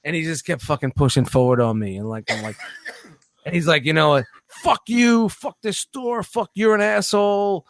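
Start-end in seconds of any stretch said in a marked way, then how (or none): 4.5-7.7 higher, half-acted cursing rant; mock angry customer. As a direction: imitate the customer's cursing, pitched up.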